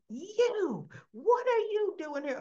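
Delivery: high, accusing mock yell; imitated outraged yell. Heather confronting Cyrus on seeing him, imitated yelling. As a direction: act out a shrill-pitched confrontation, drawing out YOU. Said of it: "she's yelling".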